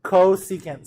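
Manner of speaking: "Cosecant" said clearly with a long first syllable; teacher drilling the word "Cosecant"; pronunciation drill. Shown as a demonstration. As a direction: prompt the class with "Cosecant". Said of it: "How do we pronounce C S C".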